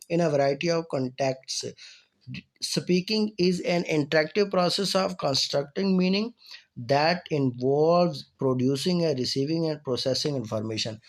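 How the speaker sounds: slow, careful reading of a definition; reading aloud. Acted. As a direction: read each word out clearly for the class. Reads English definition slowly.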